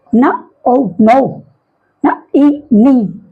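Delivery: "नो" built from "ना" and "ओ", no k; silent K. Shown as a demonstration. Teacher showing silent K, "नो" and "नी" blended from an n sound. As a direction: sound out "नी" as "ना", "ई", then join. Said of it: "के silent रहेगा".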